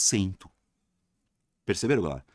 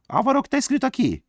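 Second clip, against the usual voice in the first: high-pitched put-on pupil questioning the teacher; high imitation of a puzzled pupil; mock student voice; 3 dB louder, much faster than usual. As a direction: squeak out a student's question in falsetto.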